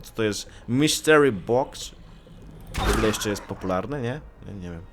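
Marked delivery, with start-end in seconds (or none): 0.7-1.9 mock announcer. Announcer-like phrase.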